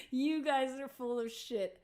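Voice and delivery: high, amused brush-off; laughing disbelief. Retold or imitated. Musician brushes off fan and friend, laughing disbelief. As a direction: scoff loudly, fresh from a laugh. Acting own laughing dismissal.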